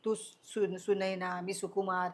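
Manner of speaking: gently calm a panicking friend. Retold or imitated. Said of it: "तो म्हणाला". (हळुवार समजूत)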